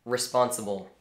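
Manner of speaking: "responsible" set apart by a pause; pause, then deliver "responsible" as a pointed one-word reminder; emphasis on responsible. Real, not acted. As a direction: stress "responsible" as a word standing on its own. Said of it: "Emphasis on".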